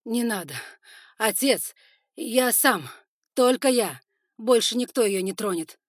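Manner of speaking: loud high pleading cries; desperate shout. Acted. Son crying out to his father, loud and desperate. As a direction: shout to stop him.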